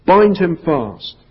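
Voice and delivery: slow, loud, high order; the White Witch ordering her hags to bind Aslan; witch command. A narrator's reading. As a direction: give the command slowly and coldly. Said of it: "she cried".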